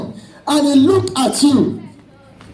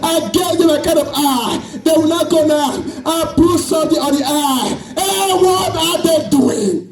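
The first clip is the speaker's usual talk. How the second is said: crying Jesus; 3 semitones higher than usual. Acted. Preacher voicing Jesus grieving over his mocking children, tearful pleading. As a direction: wail each question like a wounded father. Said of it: "And Jesus will be crying".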